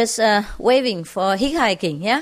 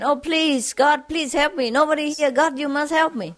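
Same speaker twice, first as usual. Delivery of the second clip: mock shouted plea; 5 semitones higher than usual. Cliffhanger begging God, mock desperate calling. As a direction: imitate a pleading call for help. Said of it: "he kept shouting again".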